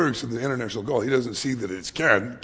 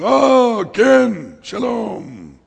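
high, loud imitated greeting, easing at the end; delighted recognition; 11 semitones higher, 11 dB louder, much slower than usual. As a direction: greet a friend you've suddenly recognized. Friend finally recognizes caller's voice.

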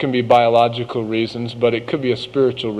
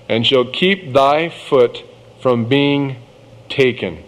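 scripture reading; 2 semitones higher, slower than usual. Acted. Reads Proverbs aloud.

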